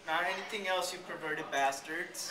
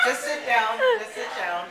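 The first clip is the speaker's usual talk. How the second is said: laughing plea; 8 semitones higher, 5 dB louder than usual. Real, not acted. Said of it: "telling friends to sit".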